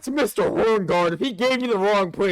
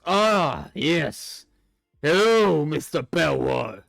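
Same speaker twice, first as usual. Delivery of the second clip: put-on old skeleton knight greeting; 2 semitones lower, slower than usual. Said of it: "He goes".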